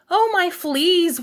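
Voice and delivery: high, drawn-out mock wail; storybook mother wailing in alarm; wailing mama. A narrator's reading. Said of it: "wailed Mama Junebug Jones".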